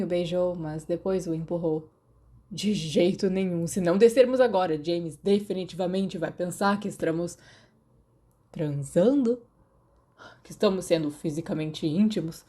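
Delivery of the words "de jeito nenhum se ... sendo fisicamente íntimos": prim. Acted. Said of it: "Remus disse piedosamente".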